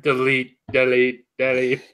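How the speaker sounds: lightly robotic monotone; Cyberman. Retold or imitated. Podcaster answering with a robot villain's command, light robotic impression. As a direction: chant it evenly like a machine. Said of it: "Or like a Cyberman".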